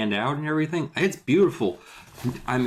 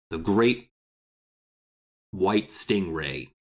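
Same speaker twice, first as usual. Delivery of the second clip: dramatic voice; 4 semitones lower, slower than usual. Pretend. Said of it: "I'm gonna keep saying this in this voice".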